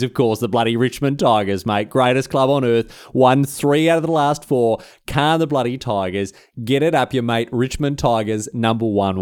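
loud hammed-up broad Australian bragging; Tigers fan boast. Richmond fan gloats to rivals in broad Australian. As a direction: crow about Richmond like a proud fan.

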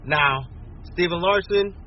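ordinary delivery

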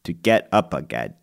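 put-on low British accent, Michael Caine style; Michael Caine impression. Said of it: "I can do a Michael Caine".

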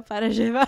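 "llevar" as zheh-var; Argentine zh sound. Shown as a demonstration. Explaining her accent, llevar as zheh-var. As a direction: say "llevar" starting with a zh. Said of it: "we say je instead of the y sound".

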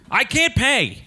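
laughing pleading. Acted. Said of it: "I don't have the money".

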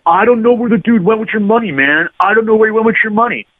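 high, pleading street hustler; nervous denial. Retold or imitated. Hustler insisting to the angry tourists he knows nothing, high and pleading. Accused robber denying everything.

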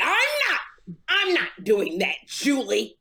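lightly voiced uptight, moneyed man; halting, put-on bougie refusal; David Arnold impression. Co-host mimics the comedian refusing Julie, uptight impression. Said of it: "That's what David Arnold talked like".

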